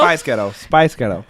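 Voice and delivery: repeated Scottish-sounding "Spice Ghetto"; mock Scottish accent. Shown as a demonstration. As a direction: practise it like a Scot saying a band's name. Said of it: "sounds like a Scottish person".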